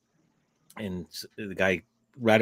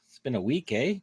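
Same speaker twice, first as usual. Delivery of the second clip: Canadian accent; 4 semitones higher than usual. Real, not acted. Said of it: "Canadian accent that just came out".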